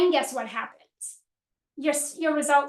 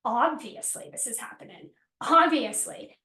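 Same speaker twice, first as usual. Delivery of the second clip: confident; 3 semitones lower than usual. Retold or imitated. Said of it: "in a way that's like".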